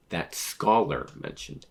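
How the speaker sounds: slow, weighted "Scholar"; slow down and lean on "Scholar"; stress on Scholar. Shown as a demonstration. Reader returning to the manga line, stress on "Scholar". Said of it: "that's a big emphasis on Scholar".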